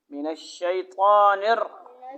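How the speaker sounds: slow chanted من الشیطان, line rising at the end; slow recitation. Shown as a demonstration. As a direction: model the phrase slowly for the child. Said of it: "اچھا بولو".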